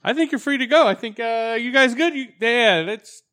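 high, loud hammy judge; mock judge voice. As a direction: play the impressed judge.

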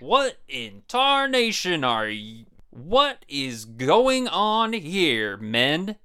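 put-on slow, drawn-out old-timer voice; crusty old grandpa, slow; old prospector. Grandpa figure arrives at stunt.

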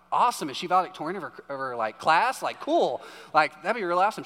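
eager proud-parent burst, quick at the start; excited. Retold or imitated. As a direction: gush with hopeful excitement, retold. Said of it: "I'm just excited".

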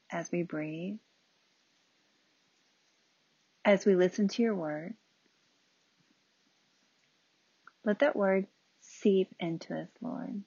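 unhurried prayer with long pauses; spoken prayer. Real, not acted. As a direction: pray aloud, leaving space between phrases.

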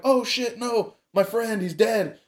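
high, wailing mock grief over the owl; mock despair. Friend watching his owl fall, in hammed-up high grief. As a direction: cry out as if your friend just died.

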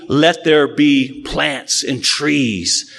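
slow, commanding God voice; a hint of a booming divine voice. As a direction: speak as the Creator, very slow. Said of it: "compare to this voice".

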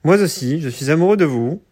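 stiff, bad robot voice. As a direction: talk like a clunky android. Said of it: "avec des voix de robots nuls".

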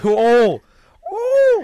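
high, loud excited oh; playful high yelp; mock excited cry. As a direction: squeal it out, hammed-up.

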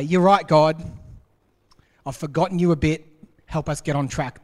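a loud, sudden plea to God, easing down; humble confession to God. Pretend. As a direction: admit it out loud, then ask for help. Suggested humble prayer to God.

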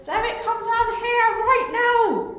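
high, loud, slow stern call; yelling across the room. Acted. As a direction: summon him from afar. Calling Derek sternly.

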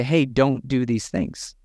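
calmly coaching the team instead of yelling; calm advice. Retold or imitated. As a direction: say it as a friendly talk, not a yell. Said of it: "we're not gonna yell at your team".

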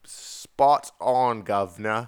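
cheeky English "guv'nor" voice; mock English accent. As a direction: toss it off in a hammed-up English accent. Joking proof of his English accent.

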